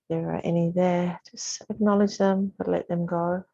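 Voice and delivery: calm, measured yoga teacher guidance; unhurried meditation voice, evenly pitched; guided meditation. Real, not acted. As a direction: settle them gently into the breath, with long pauses. Leads a seated breathing meditation.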